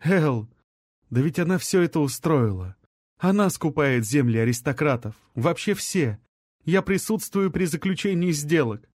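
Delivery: a lightly voiced sick friend, worried; weak feverish young man. Rai explains, weak and fevered.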